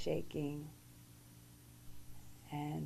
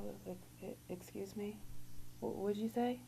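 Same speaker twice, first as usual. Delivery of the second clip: stunned disbelief; 4 semitones higher, 4 dB quieter than usual. Retold or imitated. Hearing son's leukemia diagnosis.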